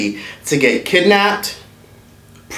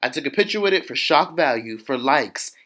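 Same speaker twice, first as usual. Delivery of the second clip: mock; 8 dB quieter than usual. Mocking Ashley's mindset, much softer.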